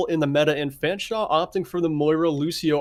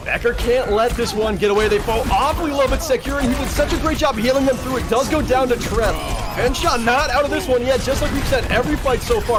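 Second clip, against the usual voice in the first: animated, raised-pitch match call; live play-by-play; 5 semitones higher than usual. Real, not acted. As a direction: keep the tension up through overtime.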